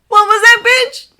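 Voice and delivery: loud, cocky taunt. Acted. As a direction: gloat over the kill. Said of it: "he taunts".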